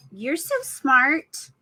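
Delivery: slow drawn praise. Shown as a demonstration.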